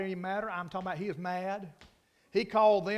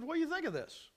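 quoting a friend; 7 semitones higher, 5 dB quieter than usual. Retold or imitated. Friend quoted asking preacher.

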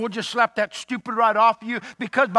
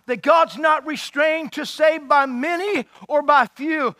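Jonathan's bold declaration; 3 semitones higher than usual. Retold or imitated. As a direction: proclaim it word by word. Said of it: "and you say".

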